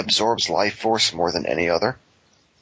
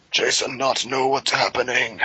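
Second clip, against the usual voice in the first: Jason caveman voice; 3 semitones higher than usual. Acted. Speaks as dim-witted Jason in riff.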